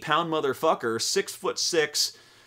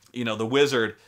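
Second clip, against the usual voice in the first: ordinary delivery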